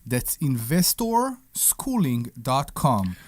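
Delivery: breathless from running; winded, catching his breath. Real, not acted. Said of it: "you know why Omri's out of breath?".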